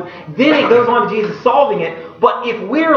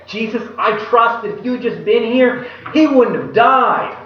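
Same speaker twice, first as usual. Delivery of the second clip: statement of faith; 2 semitones higher than usual. Shown as a demonstration. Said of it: "great statement of faith".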